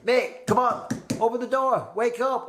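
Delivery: a hammed-up mate calling at the door. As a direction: shout like a mate banging to be let in. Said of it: "they'd be like".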